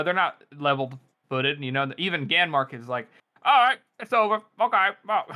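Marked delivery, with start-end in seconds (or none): 3.5-5.2 higher, louder offhand announcement; mock relieved general. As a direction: call it over, pitched up. Voicing Ganmark after the battle.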